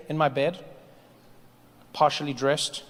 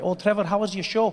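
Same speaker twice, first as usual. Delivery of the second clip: lightly voiced Scottish accent, higher; Scottish friend; 5 semitones higher than usual. Scottish friend greets comic backstage, imitated Scottish lilt. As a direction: imitate a chummy Scottish pal. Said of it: "my friend Mick was waiting for me backstage".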